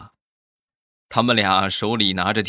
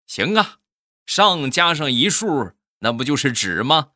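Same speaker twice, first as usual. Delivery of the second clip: higher, louder gloating punchline; gloating shout; 6 semitones higher, 4 dB louder than usual. Acted. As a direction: shout it as you swing. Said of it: "就跟他说".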